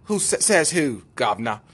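cheeky mock-English kid; lightly put-on English accent. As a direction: play a defiant English teenager. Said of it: "I wanna give him an English accent".

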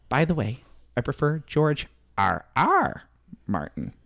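lightly voiced author, halting delivery; George. Author explaining his pen name, lightly put-on character voice. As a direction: play a mildly fussy writer, pausing for effect. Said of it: "I'm George".

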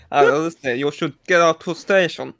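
imitating a movie character's fake accent; lightly mimicked comic accent; Tony's put-on accent. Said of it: "yeah, he's like".

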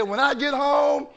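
mildly mock-angry threat; furious mother. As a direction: lightly play a mom warning her child. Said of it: "She is furious".

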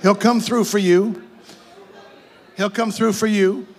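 assuring your neighbor, rising at the end. Shown as a demonstration. Preacher leads congregation, telling neighbor in reassuring voice. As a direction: tell the person beside you he'll come through. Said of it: "look at your neighbor and say".

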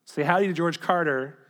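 measured reading, starting strong and easing down; letter read aloud. Acted. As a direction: read out the letter with deliberate phrasing.

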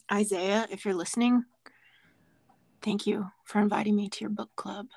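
breathy NPR-style near-whisper; close-mic menace. Pretend. Threatening Isaiah over a book club, close-mic murmur. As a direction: murmur a mock threat right on the microphone. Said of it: "NPR amount of close to the microphone".

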